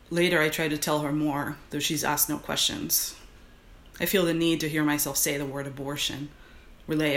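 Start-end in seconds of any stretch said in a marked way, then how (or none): 0.1-3.2 dude voice. Acted. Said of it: "reading this in my dude voice".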